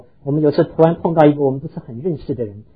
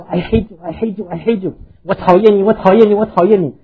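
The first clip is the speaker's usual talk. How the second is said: the valley echoing back, higher and louder; echo voices; 5 semitones higher, 7 dB louder than usual. Retold or imitated. The valley echoes the boy's angry shout, high and loud. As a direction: bounce it back like a ringing echo. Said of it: "各式各样的声音回来说".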